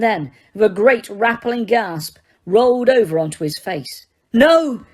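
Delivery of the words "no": loud, sharp no; Harry shouting in alarm; shouted no. Acted. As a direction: shout in shock. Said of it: "shouted Harry".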